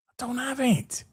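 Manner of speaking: high, soft little denial; quiet high-pitched aside; small-voiced protest. Real, not acted. Softer repeat of protest.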